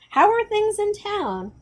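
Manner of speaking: father voice. Acted. Father asks son.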